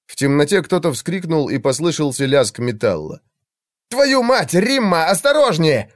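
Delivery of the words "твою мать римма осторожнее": panicked shout. A narrator's reading. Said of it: "донёсся голос Игнация".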